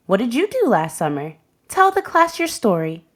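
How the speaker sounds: lightly voiced teacher, rising on tell; a hint of a cheerful teacher; teacher's question. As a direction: ask like a friendly teacher inviting the class. Teacher asks class a question.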